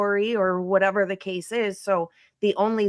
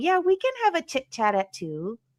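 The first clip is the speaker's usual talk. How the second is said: falsely carefree, breezy tone, high sing-song; 6 semitones higher, 3 dB quieter than usual. Imitating her pretending everything's fine on the phone: mock casual breeziness. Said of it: "She's pretending like everything's fine".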